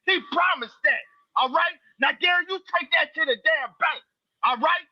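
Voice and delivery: lightly voiced King Loski, folksy and griping; King Loski persona. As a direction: grumble in the persona of King Loski, calling everyone out. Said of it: "joining us right now is King Loski".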